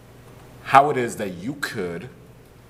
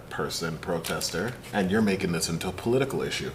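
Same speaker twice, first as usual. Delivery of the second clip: mock reasonable official spin; deadpan fake sincerity, speeding up; sarcastic. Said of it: "yeah, the sarcasm".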